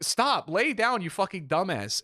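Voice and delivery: mock-yell it, stretching the first words; imitated exasperated scolding. Family to babbling patient, high exasperated mock scolding.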